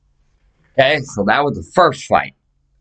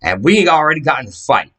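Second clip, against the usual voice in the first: retold angry snap; 6 semitones higher than usual. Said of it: "I said".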